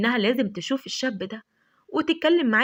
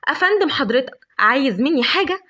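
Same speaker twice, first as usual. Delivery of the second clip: louder, sharp, higher irritated demand; 3 semitones higher, 4 dB louder than usual. Acted. Lavender snapping at the big stranger, loud irritated demand. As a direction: snap at the stranger who scared her. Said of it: "قالت له بعصبية".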